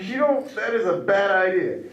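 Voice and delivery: high, loud, slowed boast; mock earnest warning. Comedian warns his girlfriend about his spit, high loud mock earnest. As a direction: warn her like it's serious.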